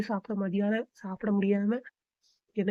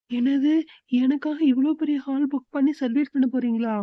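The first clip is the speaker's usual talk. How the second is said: surprised; 4 semitones higher, 3 dB louder than usual. Acted. Wife hears of surprise party.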